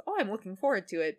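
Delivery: lightly voiced eagerness with a lifted "oh"; Yugi's open anticipation. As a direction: look forward to it openly, mildly acted. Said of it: "they have very different energy".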